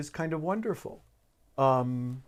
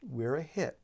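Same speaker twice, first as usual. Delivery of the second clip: soft and warm. Retold or imitated. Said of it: "being so soft and warm".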